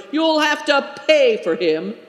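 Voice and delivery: dog owner shouting from the far bank; angry shout. A narrator's reading. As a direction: yell at the thrower over the hurt dog. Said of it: "he shouted".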